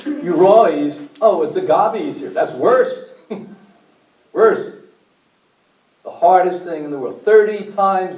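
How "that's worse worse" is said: laughing. Real, not acted. Joking with the audience about agave.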